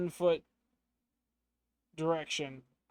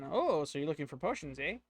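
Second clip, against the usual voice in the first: a hint of an old shopkeeper lady's accent; half-hearted old lady accent, a touch louder; 3 dB louder than usual. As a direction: lightly voice the old woman across the counter. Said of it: "I don't know about the accent. Bear with me, I'm not an old lady".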